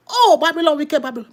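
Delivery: put-on Oh rising high and loud, then wicked Babylon falling; loud lament. Shown as a demonstration. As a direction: cry out Oh Babylon.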